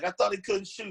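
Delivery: put-on coach-style yelling, pitched high. Retelling a coach turning to look at you: imitating a coach yelling. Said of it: "and he's yelling".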